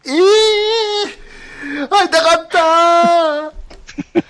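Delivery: high, slow, shrieking with joy; overjoyed cry. Pretend. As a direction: wail it out like a long-lost reunion. Finally finds the long-lost game. (感激の叫び)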